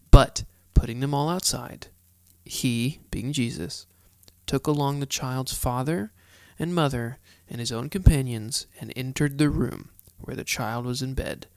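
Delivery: measured, deliberate Bible narration with long pauses; scripture reading. A narrator's reading. Host reads the Gospel of Mark to listeners, measured scripture reading. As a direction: read it out phrase by phrase, key words punched.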